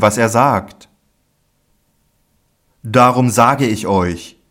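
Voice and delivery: Jesus preaching to his disciples with conviction. Acted. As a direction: proclaim it firmly to the disciples. Jesus teaching with force.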